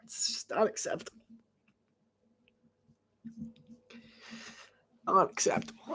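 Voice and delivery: very soft, near-whispered disapproval; muttered dismay. Real, not acted.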